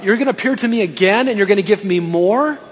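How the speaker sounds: lightly acted incredulous questioning; mild disbelief. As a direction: question it with a touch of astonishment, rising at the end. Acts out Paul's astonished reaction.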